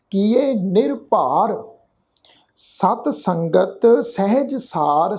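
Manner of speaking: slow, measured chanting of the verse; scripture recitation. Shown as a demonstration. Teacher reciting the verse for the congregation, slow and measured. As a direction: lay each word out slowly and reverently.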